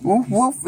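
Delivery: short imitation woofs; dog woof. Shown as a demonstration. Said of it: "is the dog".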